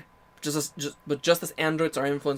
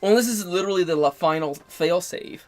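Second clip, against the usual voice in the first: excited high; 7 semitones higher, 3 dB louder than usual. Real, not acted. Excited speculation.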